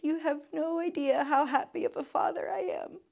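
soft, teary, breaking voice; barely getting the words out through tears; choked up. Real, not acted. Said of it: "I was wrecked".

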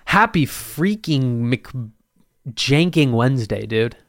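slow, drawn-out bro greeting; douchebag voice. Pretend. Podcaster hamming a bro greeting to his listeners, lightly mock douchebag. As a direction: ham up the cool-guy hello. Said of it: "I sounded like a real douchebag right there".

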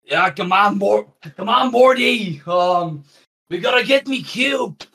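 high, shouting Australian cartoon grandpa; loud Aussie Rick yelling at Morty; Australian Rick accent. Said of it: "For example".

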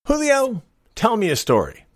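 high called-out name, then the order; a pirate captain summoning his mate; calling Julio from across the deck. Acted. Captain calls to first mate.

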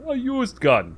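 high, loud mock amazement; imitated amused president. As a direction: echo it with exaggerated, high-pitched delight. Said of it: "the president just starts laughing".

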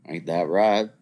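put-on Southern drawl, slow; Southern accent. Shown as a demonstration. Showing listeners he can do it, Southern accent. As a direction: stretch the vowels in a Southern accent. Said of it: "I can do a Southern accent".

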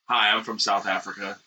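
put-on South African accent. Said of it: "my impression of South African".

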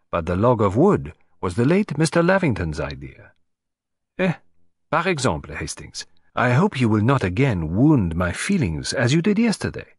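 a hint of a precise foreign detective explaining; pleased, lightly amused lecturing; lightly voiced Belgian detective. Detective to Hastings, lightly accented and smug.

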